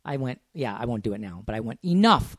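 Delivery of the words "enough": toned-down stern dad, slightly raised; a held-back demonstration of a dad's telling-off. Retold or imitated. Dad showing how he told his son off, toned-down dad voice. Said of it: "but I said it, like, in the dada".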